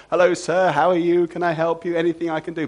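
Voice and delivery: mock cheerful servant greeting; fake polite smile. Servant forcing a smile at his master, overly polite. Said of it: "had to outwardly always smile".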